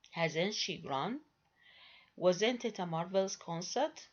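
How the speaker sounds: exclamatory question with a falling tune. Shown as a demonstration. Teacher demonstrating exclamatory questions with a falling tone. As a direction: let "Hasn't she grown?" fall at the end, not rise. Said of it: "I produce them with a falling tone".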